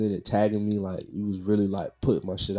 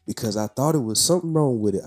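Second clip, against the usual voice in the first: put-on very high, thin old lady; 9 semitones higher than usual. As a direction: squeak it out like an elderly woman. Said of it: "start using my old lady voice".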